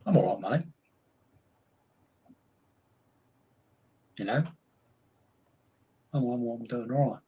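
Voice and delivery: put-on Cockney, chatty and easy; Cockney shop owner answering a mate; mock Cockney accent. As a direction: play a London shopkeeper in Cockney. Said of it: "a London accent or a Cockney accent".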